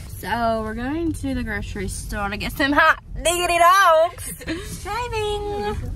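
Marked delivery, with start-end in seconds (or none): 2.5-5.9 pitched way up, playful; squeaky high voice. Pretend. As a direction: go high and silly. Silly high voice while driving.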